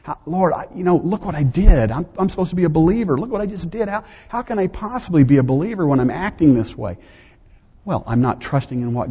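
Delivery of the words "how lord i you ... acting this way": higher-pitched, troubled pleading with God; retold anxious self-doubt. Young believer questioning God over his own failings, retold anxious self-doubt. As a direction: replay your old insecurity as mildly agitated pleading. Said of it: "I had terrible struggles with assurance".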